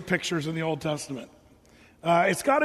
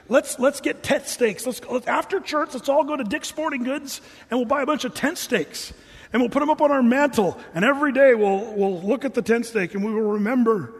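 mock enthusiasm; 3 semitones higher than usual. Mock proposal to buy tent stakes.

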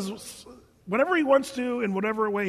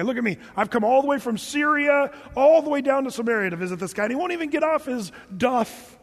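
mock indignant; 3 semitones higher, 3 dB louder than usual. Preacher voicing Naaman complaining about Elisha, mock indignation. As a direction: build a case like an offended big man. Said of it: "he goes away angry".

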